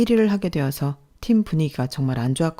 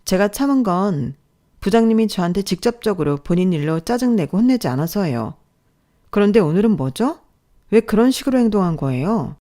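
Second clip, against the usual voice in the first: controlled anger, pressing the questions; angry mentor; 3 semitones higher, 4 dB louder than usual. Acted. Mentor to trainee after being blamed, angry. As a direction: confront a colleague indignantly. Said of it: "그때 저에게 화를 내더군요".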